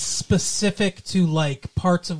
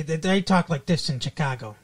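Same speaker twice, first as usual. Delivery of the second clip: Chicago accent. Shown as a demonstration. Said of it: "this is a kind of a Chicago accent".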